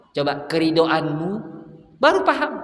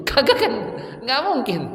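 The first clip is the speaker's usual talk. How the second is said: laughing; 6 semitones higher than usual. Real, not acted. Preacher laughs at own example.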